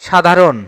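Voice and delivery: সাধারণ said as "sha-dha-ron"; careful word alone, সাধারণ ending in "-ron"; model pronunciation. Shown as a demonstration. Teacher gives the answer for সাধারণ, modelling "sha-dha-ron" carefully. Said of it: "সাধারণ শব্দের উচ্চারণ হবে".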